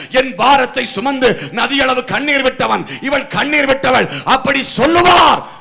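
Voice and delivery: from steady to loud, full-voiced preaching; building preaching. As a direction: climb in force line by line until the shout. (படிப்படியாக உயரும் பிரசங்கம்)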